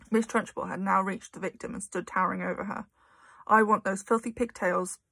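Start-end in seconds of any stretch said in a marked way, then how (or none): 3.4-5.0 mild stern bark. Acted. Trunchbull ordering Amanda to cut her pigtails, mild bark. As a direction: lay down the order harshly. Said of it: "she barked".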